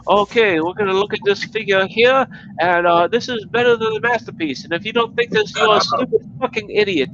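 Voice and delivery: high sneering reviewer voice; mock a smug reviewer, pitched high; mocking impression. High sneering voice imitating a smug rival reviewer. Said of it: "He's like".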